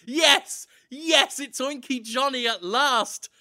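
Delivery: an overjoyed mock yell; excited kids' cheer. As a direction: cheer like thrilled kids, half screamed. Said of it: "They're, like, screaming".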